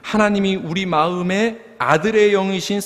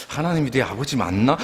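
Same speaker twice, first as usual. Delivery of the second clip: lower-pitched wondering aloud, imitating doubt; mock doubtful; 4 semitones lower than usual. Pastor imitating congregation unsure God is father, mock doubtful. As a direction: play an unsure believer questioning it. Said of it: "약간 의심스럽게 불러요".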